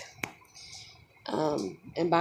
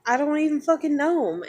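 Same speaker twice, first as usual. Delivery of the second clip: higher and louder, spitting the words; angry outburst; 8 semitones higher, 6 dB louder than usual. Real, not acted. Venting at commenters about strangers, loud and angry. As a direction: snap it out in real anger.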